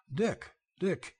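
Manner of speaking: high, booming roar of joy. A narrator's reading. Belding greeting Dick, with a joyful roar. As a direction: bellow his name across the yard. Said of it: "he roared".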